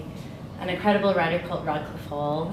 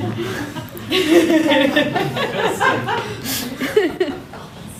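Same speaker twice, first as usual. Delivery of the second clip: long high burst of laughter; 12 semitones higher, 7 dB louder than usual. Real, not acted. Long laugh after recording mention.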